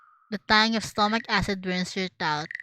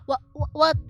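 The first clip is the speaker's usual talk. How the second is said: stammering disbelief; 7 semitones higher, 5 dB louder, faster than usual. Real, not acted. Reader recoils at horror.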